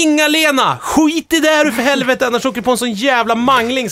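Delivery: high-pitched mock yell, easing towards the end; retold screaming. Pupil yelling at canteen lady Inga-Lena, mock screaming. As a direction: imitate a panicked, swearing shout. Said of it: "man skriker så här".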